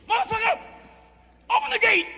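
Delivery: high, loud yelled demand; furious high shout; shouting threat. Retold or imitated. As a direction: yell it at the guard. Inmates threatening guard at gate.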